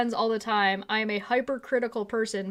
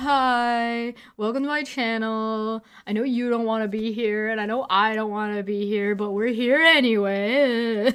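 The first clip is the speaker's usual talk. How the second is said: put-on miserable tone; 3 dB louder than usual. Redoing a channel intro after being asked why they sound so miserable, mock-miserable. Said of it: "Why do you sound so miserable?".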